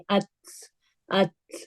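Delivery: light T in ات with flowing breath; hams. Shown as a demonstration. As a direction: let air flow after the T of ات. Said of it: "ہماری فلو sound سنائی دے گی".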